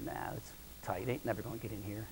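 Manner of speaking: calm her down in a whisper; dad whispering to his scared daughter in the tent; hushed reassurance. Retold or imitated.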